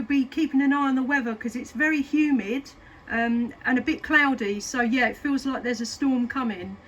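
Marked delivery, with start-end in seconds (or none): none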